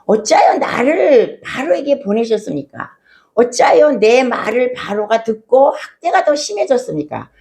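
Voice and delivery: retold lament, lightly pleading, without real crying; mild imitated tearful pleading. Moses questioning God over the abused people, mildly imitated plea. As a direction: act out an anguished prayer with restraint. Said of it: "부르짖으면서 울면서 기도하는데".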